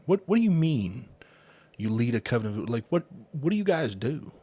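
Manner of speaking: puzzled question with a hint of Southern; Southern accent. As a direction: slip lightly into a Southern lilt. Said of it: "I don't know why I got Southern there".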